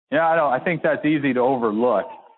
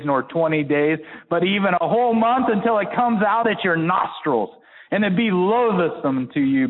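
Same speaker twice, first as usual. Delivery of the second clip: voice of God; 5 semitones higher than usual. Acted. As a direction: let God's rebuke build higher. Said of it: "And this is God speaking".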